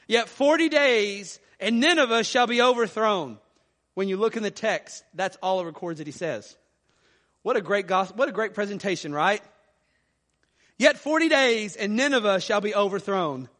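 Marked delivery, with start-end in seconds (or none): 0.1-3.4 calling out. Retold or imitated. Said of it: "and he called out". 10.8-13.5 lackadaisical reading. Shown as a demonstration. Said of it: "What a poor, lackadaisical, resistant presentation".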